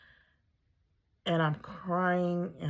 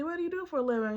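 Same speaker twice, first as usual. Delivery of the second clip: doctor voice; 12 semitones higher, much faster than usual. Retold or imitated. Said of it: "He's like".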